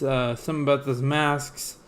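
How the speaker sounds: slurping a drink while talking. Real, not acted. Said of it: "Why are you slurping so much?".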